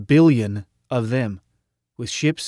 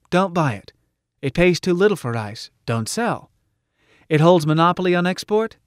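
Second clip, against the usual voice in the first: higher, emphatic platform voice; rousing rally orator; 5 semitones higher than usual. Acted. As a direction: urge the crowd on with punchy answers. Orator urging the crowd.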